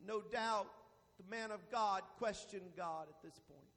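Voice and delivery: low, soft reflection after the peak; subdued pulpit aside; hushed preaching. Real, not acted. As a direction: drop down and muse gently. Quiet reflection after climax.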